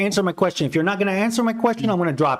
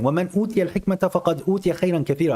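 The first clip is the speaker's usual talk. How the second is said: recitation; much faster than usual. Shown as a demonstration. Quoting the verse in Arabic.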